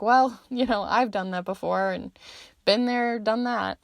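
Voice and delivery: breezy laughing been-there attitude. Retold or imitated. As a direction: shrug it off with a laugh. Voicing the listener's easygoing attitude.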